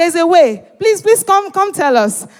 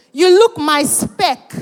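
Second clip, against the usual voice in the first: slow demo compliment; 3 semitones higher, slower than usual. Shown as a demonstration. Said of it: "That's also something you can say".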